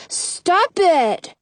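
put-on high-pitched, irritated kid; annoyed protest. A narrator's reading. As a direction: tell a pestering child to quit. Boy protests at being poked.

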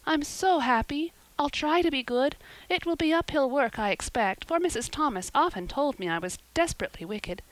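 put-on high, puzzled, overjoyed little girl; bewildered. A narrator's reading. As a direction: gush in happy confusion, pitched high. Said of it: "in a tone of bewilderment".

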